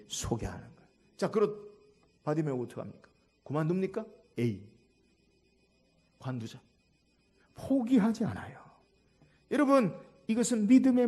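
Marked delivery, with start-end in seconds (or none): 4.4-6.6 much softer, lower dismissive aside; low, resigned throwaway quote; acted giving up. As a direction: imitate someone quietly giving up. Voices someone giving up.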